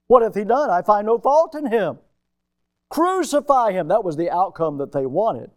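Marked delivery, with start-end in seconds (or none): 0.1-2.0 raised, insistent judge's voice; Pilate protesting. Acted. Pilate protesting Jesus' innocence. 2.9-3.9 a high, loud cry for blood; crowd's demand. Acted.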